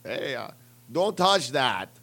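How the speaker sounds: put-on slow slurred Russian accent; loopy Russian cosmonaut, heavy accent; mock Russian accent; drunk Russian accent. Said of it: "need to learn how to do a better Russian accent".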